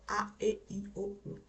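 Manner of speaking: A, E, I, O, U one by one, fading by the end; vowels stepping down. Shown as a demonstration. Teacher demonstrating descending vowels to class, sinking and fading. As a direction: start firm on A and let O, U fall away softly. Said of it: "Elas vão só baixando".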